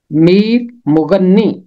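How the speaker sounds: slow, deliberate Mir مغنی with a doubled n; Mir مغنی said as meer mu-gan-ni, slowly; careful pronunciation. Shown as a demonstration. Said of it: "میں نے بہت سارے لوگوں کو اسے مغنی پڑھتے".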